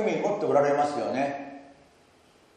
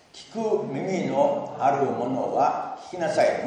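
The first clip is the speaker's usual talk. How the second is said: slow, louder recitation with the congregation; slow unison recitation; 3 dB louder, slower than usual. Shown as a demonstration. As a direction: lead everyone through it word by word. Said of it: "ご一緒にどうぞ".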